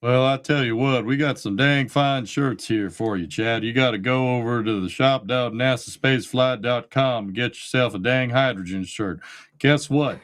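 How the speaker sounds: light Southern drawl selling shirts. Retold or imitated. Host pitching shirts to Chad in a light Southern drawl. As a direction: lay on a mild Southern drawl. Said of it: "the Southern drawl".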